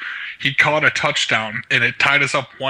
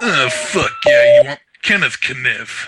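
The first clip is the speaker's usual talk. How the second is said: mock goofy voice; slower than usual. Prank call put-on voice.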